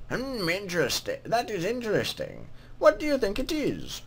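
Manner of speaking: put-on lilting greeting from an old-world scribe; put-on scribe voice, swooping in pitch; scribe's character voice. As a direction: voice a game scribe saying hello. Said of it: "what voice should I give him".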